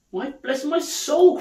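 high, drawn-out amazement; astonished cry. Acted. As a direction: exclaim slowly in happy surprise. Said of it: "cried Fred".

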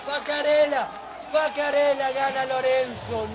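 excited winner call. Real, not acted. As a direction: proclaim the win with excitement. Calling the surprising winner.

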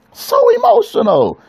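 preacher's high exclaimed repeat; emotional cry out. Acted. Preacher repeats phrase at peak.

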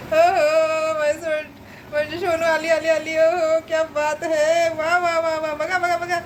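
high, gleeful praise for a pet; high-pitched proud cooing; delighted cheering. Real, not acted. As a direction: cheer the little one on with drawn-out whoops.

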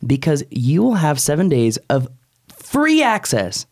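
upbeat, measured ad pitch; host's conversational ad read; podcast sponsor read. Real, not acted. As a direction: sell it with punched key phrases. Reads the sponsor ads.

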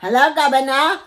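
hammed-up, badly faked British accent; attempted British accent. Shown as a demonstration. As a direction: put on a comic British accent. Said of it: "can you do a British accent".

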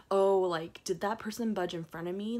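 mock outrage at a line-jumper; grumpy. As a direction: act out a grumbling bystander. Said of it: "people were grumpy".

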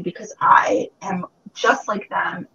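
tearful, breaking whisper; real crying. Real, not acted. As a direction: hold back the tears as you say it. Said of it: "to the point where I did cry".

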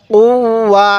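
"উ, ওয়া" with the w held across both syllables; teacher's demonstration of "উ, ওয়া" with a lengthened w; doubled consonant. Shown as a demonstration. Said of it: "তাজদিদটা দুইবার পড়তে হয়".

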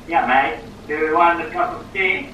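hammed-up English accent; bad English accent. French stranger mocking the British host's talk, bad English accent. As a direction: attempt a stereotype English accent, badly. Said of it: "that is the worst E-, English accent".

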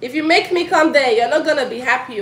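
loud, high warning call. Real, not acted. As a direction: threaten from across the house. Mother warning kids offscreen.

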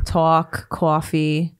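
put-on dad's New York accent; lightly imitated New York accent. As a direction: imitate a New Yorker's vowels. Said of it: "born and raised in New York".

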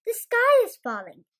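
high, loud gobbling alarm; gobbled. Acted. Turkey Lurkey warning Goosey Lucy, high gobbling alarm. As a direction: gobble it out in fright. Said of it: "Turkey Lurkey gobbled".

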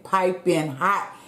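Piping hot drawn out slowly, rising on hot; slow, savoured. Shown as a demonstration. Showing viewers the steaming food, slow and savoured. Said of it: "Y'all see it?".

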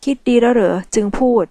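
a touch of stern pressure; stern pressing question. Acted. Mafia man pressing Michelle, mildly stern. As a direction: press her hard, lightly stern. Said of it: "เขาถามเค้นด้วยน้ำเสียงเข้ม".

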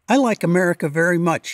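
put-on quick, light British accent; a hint of British accent, brisk; a rock star's British accent. Narrator quoting a rock star to a reporter, mild British accent. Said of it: "he said in a thick British accent".

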